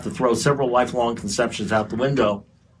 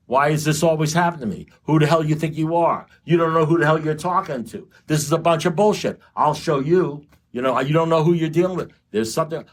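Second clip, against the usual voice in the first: raised, aggrieved mock rant; higher aggrieved victim voice; self-pitying rant; 5 semitones higher than usual. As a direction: whine like the world owes you. Retelling his own victim rants.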